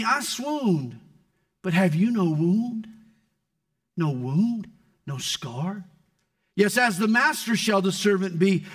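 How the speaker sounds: poem reading. Acted. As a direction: read it as Jesus speaking tenderly. Reading a favorite poem aloud.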